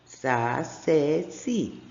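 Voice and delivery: "Sa, se, si" each with a clear hissed S; "Sa, se, si" recited as a syllable drill; S-sound syllables. Shown as a demonstration. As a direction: sound out "Sa, se, si" one by one, stepping up in pitch. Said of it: "Tem o som de S?".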